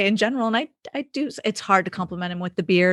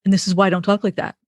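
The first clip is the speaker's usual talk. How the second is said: quoting husband; faster than usual. Retold or imitated. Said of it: "And then he'd say to me".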